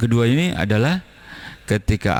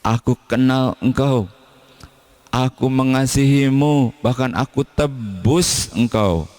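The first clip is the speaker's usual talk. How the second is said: God speaking tenderly; 6 semitones higher than usual. Acted. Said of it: "Sebab Allah bilang".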